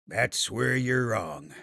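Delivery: slow, smiling and sure; with a smile. Acted. Grandfather springing his surprise on Fawkes, slow and smiling. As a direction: savour the reveal with a smile. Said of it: "Hervin said with a smile".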